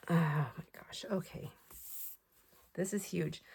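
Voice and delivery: soft breathy whisper of amazement; whispered awe. Real, not acted. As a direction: whisper it like a secret treasure. Hushed awe at huge pad.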